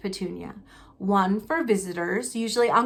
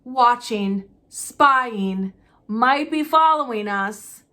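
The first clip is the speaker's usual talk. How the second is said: wild mutter; 5 dB louder, slower than usual. Acted. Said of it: "muttered Uncle Vernon wildly".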